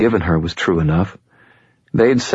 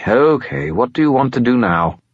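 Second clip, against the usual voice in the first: higher resigned spirit voice; Bob skull voice; 6 semitones higher than usual. A narrator's reading. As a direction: give in, pitch climbing. Bob gives in.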